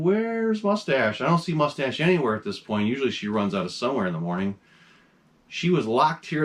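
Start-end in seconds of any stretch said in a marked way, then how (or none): 0.0-1.2 tag. Retold or imitated. Wondering where the cat is.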